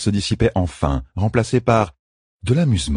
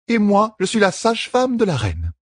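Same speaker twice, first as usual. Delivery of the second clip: very calm. A narrator's reading. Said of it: "toujours très calme".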